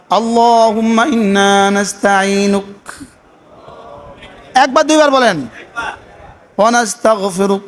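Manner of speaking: slow, measured recitation of the Qunut; prayer recitation. Shown as a demonstration. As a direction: chant each phrase deliberately, like a model reading. উচিত ছিল এভাবে পড়া. (ধীরে ধীরে দোয়া কুনুত তিলাওয়াত)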